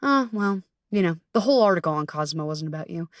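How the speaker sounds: deflate the good news, trailing off; dismissive Bertha. Retold or imitated. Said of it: "like the bitch that she is".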